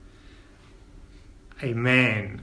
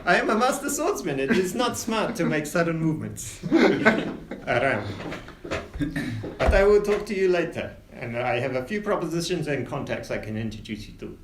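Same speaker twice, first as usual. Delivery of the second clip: a light warning from a swordsman; captain Winters; 2 semitones higher than usual. Acted.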